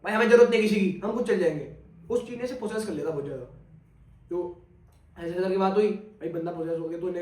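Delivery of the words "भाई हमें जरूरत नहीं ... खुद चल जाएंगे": loud, defiant refusal to the stranger; retold angry snap. Possessed friend refusing help from the stranger, loud and defiant. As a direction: throw the offer back in his face. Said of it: "उसके मुंह पे क्या था".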